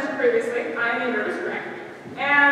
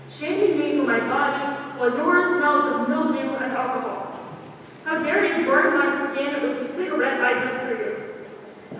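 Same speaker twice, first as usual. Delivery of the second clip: spoken word poem. Acted. Performs her spoken word poem.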